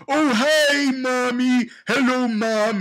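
cheery hammed-up hi to mom; mock John greeting Mommy.

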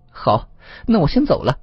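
high, loud fox farewell; departing fox immortal. Acted. Fox immortal takes its leave. (狐仙高声告辞)

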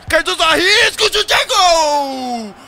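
screaming the goal, high and loud; explosive goal commentary. Acted. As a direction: roar it like a TV narrator. Goal scored in football game.

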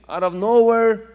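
loud, high punch on nowhere; preaching at full force; emphatic preaching. Real, not acted. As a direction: hit it hard to build.

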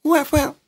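swooping reversed-sample noise; short rising vocal swoops; reversed-sound imitation. Shown as a demonstration. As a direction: mimic a reversed creak by mouth. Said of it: "je les reverse un peu, ça fait".

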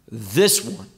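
THIS ONE set apart, low and deliberate; emphatic. Acted. Preacher quoting the voice from the cloud, emphatic. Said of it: "this makes it emphatic".

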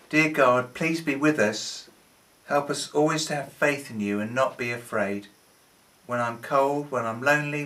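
earnest prayer voice, softening toward the end. Acted. Leader praying for children who are scared. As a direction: pray it simply, like a child.

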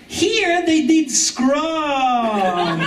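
laughing punchline. Real, not acted.

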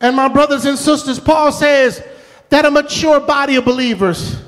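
normal talking voice

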